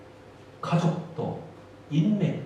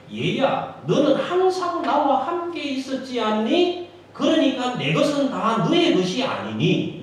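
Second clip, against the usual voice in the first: raised, louder pleading father's voice; father's gentle appeal; 6 semitones higher, 6 dB louder than usual. Acted. Father pleading with his older son, raised and louder.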